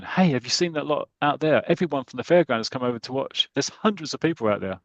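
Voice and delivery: a touch of panic at the crowd; nervous. Retold or imitated. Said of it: "Charlie Edwards is really nervous".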